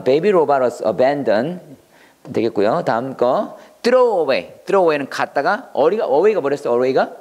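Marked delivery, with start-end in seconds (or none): 0.0-1.6 slow, careful model sentence for learners; slow teacher read. Shown as a demonstration. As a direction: read it out slowly, word by word. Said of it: "model sentence".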